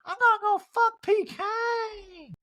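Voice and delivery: high, slow mock Erica; Erica impression. Recapper doing Erica by mistake, high mock voice. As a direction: whine it up high. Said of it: "that was my Erica".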